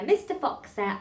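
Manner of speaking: slow "won't do it" with each T released; every T sounded. Shown as a demonstration. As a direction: articulate the final T in "won't" and "it". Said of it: "try and say them all".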